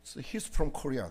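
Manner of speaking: very slow, drawn-out American English "He's from Korea"; American announcer accent. Retold or imitated. Preacher mimicking an American announcer, slow American accent. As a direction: stretch each word like an American broadcaster. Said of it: "미국식 추".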